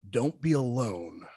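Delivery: slow, grandly spelled-out signing; slow mock-solemn reading of the signed note; mock grand inscription. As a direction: savor each line like a proud autograph. Reads out his mock autograph.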